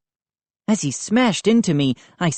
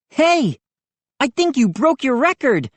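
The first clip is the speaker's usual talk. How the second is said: declaring; 8 semitones higher than usual. A narrator's reading. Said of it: "I declared".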